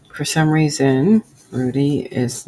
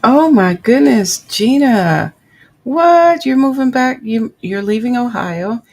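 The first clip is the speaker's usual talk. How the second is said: high, loud, delighted gasp of news; thrilled, much higher and louder; excited surprise; 8 semitones higher, 9 dB louder than usual. Real, not acted. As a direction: squeal with surprise at a friend's news. Reacting to a viewer's chat news.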